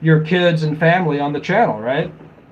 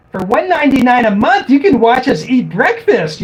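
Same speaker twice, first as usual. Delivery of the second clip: higher, brighter pitchman voice selling a subscription; mock sales pitch; 6 semitones higher, 3 dB louder than usual. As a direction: ham up a cheesy ad read. Mocking paid family vlog offers.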